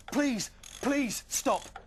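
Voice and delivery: high, very slow pleading whimper; mock whimper. Tom fakes terror to trick Flame Throttle, whimpering. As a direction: fake begging. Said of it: "whimpered Tom once more".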